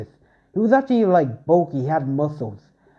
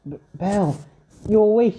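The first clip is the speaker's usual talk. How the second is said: excited cry; 6 semitones higher than usual. Acted. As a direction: burst out as if he came back from the dead. Hestia sees Bell wake up.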